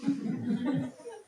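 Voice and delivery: noisy slurp breaking into laughter; slurping wine tasting. Shown as a demonstration. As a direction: air sucked through wine with a laugh. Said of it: "I will try to demonstrate".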